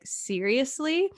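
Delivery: slow, skeptical questioning rise; imitating doubtful onlookers; incredulous. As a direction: draw it out in quiet disbelief. Engineers doubting the old repairman.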